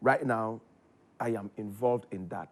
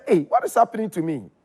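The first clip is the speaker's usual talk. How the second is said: alarmed inner voice; 5 semitones higher, 9 dB louder than usual. Retold or imitated.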